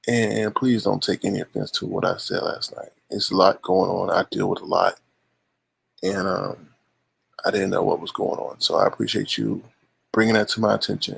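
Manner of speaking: earnest and subdued, owning the mistake; sincere apology. Real, not acted.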